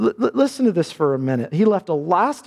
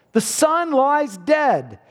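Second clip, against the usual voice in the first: slow solemn line; 9 semitones higher, much slower than usual. Acted. Repeats climax line.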